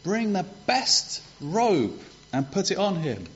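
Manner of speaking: urgent high call to the servants; an overjoyed father calling his servants. Retold or imitated. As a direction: call out quick, eager and bright. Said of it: "the father called out to his servants".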